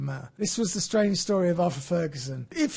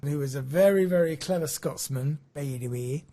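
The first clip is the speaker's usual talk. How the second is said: attempted Scottish accent, lightly put on; low, trailing stab at a Scottish accent; 5 semitones lower than usual. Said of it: "That was my Scottish accent".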